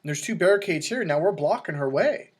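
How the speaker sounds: retold exasperated scolding; exasperated explaining. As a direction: spell it out for the clueless buddy. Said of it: "I go".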